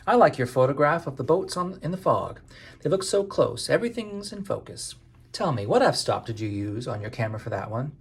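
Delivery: put-on high, haughty New York-accented voice; a snooty city woman quizzing a fisherman about her camera; haughty New York lady. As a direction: look down your nose at the lobsterman, New York style. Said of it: "she says in a haughty voice".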